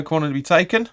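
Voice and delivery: light Australian lilt on the call; an accidental hint of Australian; Aussie accent. Commentator calling a corner, slipping into a light Australian accent. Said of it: "sounded all Aussie there".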